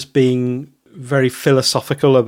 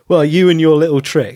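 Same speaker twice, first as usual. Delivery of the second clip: lightly mocking, raised and louder; patronizing; 5 semitones higher, 5 dB louder than usual. Podcaster mimicking talk about someone's little trick, mildly patronizing. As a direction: mildly belittle it, pitched up. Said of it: "almost a patronizing of himself".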